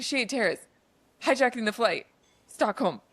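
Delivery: halting phrases with a pause after each; deliberate, telegram-style delivery; slow short sentences. Retold or imitated. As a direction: imitate a painfully slow phone tip. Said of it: "he's saying them so slowly".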